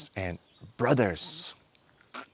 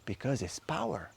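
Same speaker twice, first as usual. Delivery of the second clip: ordinary talk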